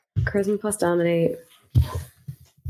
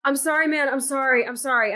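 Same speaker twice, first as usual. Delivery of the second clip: twitchy slurred sniffing addict; 5 semitones higher than usual. Pretend. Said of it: "try to act, like, weird and out of it".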